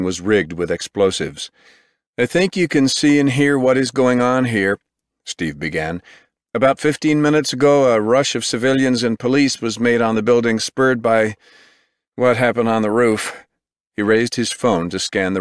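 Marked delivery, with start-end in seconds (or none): 2.2-13.4 urgent field reporter. Acted. Reporter live at scene.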